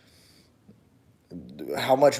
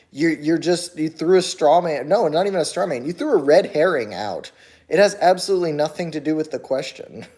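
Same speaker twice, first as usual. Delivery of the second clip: raised, insistent arguing at a commenter; heated rebuttal; 4 semitones higher, 4 dB louder than usual. Real, not acted. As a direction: push back hard, almost lecturing. Arguing back at a commenter's point.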